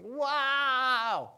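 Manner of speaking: long, high, drawn-out exclamation; amazed outburst. Acted. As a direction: belt it out in sheer astonishment. Imagined reaction to the miracle.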